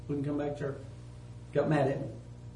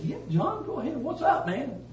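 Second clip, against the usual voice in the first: retold friendly answer; 8 semitones higher than usual. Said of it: "I said".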